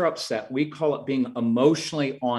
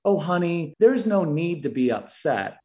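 sweet talk; 2 semitones higher than usual. Retold or imitated. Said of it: "Sometimes we talk very sweetly".

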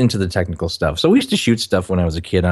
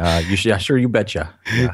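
put-on Minnesota accent. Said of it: "I can do the accent with the best of 'em".

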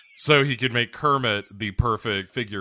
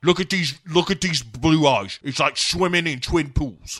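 high, loud, insistent plea; Bond yelling; 6 semitones higher, 7 dB louder than usual. Acted. Bond drawing Madeline's eyes to his own, yelled. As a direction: raise your voice to distract her. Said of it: "Bond starts screaming".

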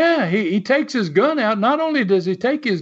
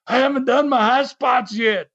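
higher-pitched mock scream, no real volume; retold screaming; 4 semitones higher than usual. Son imitating dad screaming from the apron mid-riot, mock scream. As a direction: imitate a dad yelling his complaint. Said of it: "he started screaming real loud".

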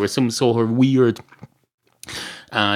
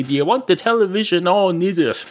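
Kildare speech; 6 semitones higher than usual. Shown as a demonstration. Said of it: "This is the way we talk around here in County Kildare".

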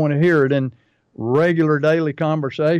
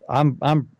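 out of breath. Real, not acted. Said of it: "running out of breath".

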